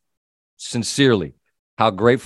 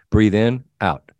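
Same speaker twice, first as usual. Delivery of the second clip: calm breathing instructions; 4 semitones lower than usual. Shown as a demonstration. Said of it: "Thirty-second mindful breathing. Here's what you do".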